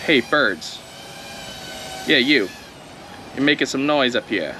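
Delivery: a hammed-up New York accent; badly faked New Yorker calling out. Calling to noisy birds, bad New York accent. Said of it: "My shitty New York accent".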